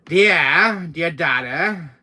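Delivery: loud, high call. Acted. Father calling daughter about his gun, calling out. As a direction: call her from another room.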